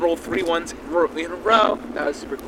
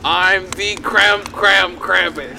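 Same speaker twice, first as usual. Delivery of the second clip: slow declaration; much slower than usual. Acted. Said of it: "Say it".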